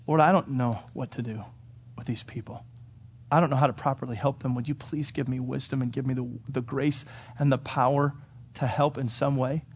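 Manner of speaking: a quiet, understated appeal for help; mildly overwhelmed plea. Acted. Peter praying to the Lord among mourners, mildly overwhelmed. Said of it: "could have been a little overwhelmed".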